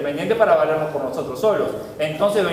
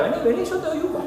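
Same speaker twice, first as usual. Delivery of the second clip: tender coaxing; 9 semitones higher, 5 dB quieter, much faster than usual. Acted. Coaxing a scared child into arms.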